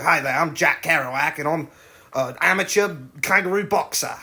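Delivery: Australian boxer introducing himself; measured Australian accent for a comic character. Acted. Invented kangaroo boxer greets the camera, Australian accent. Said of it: "I thought of the character".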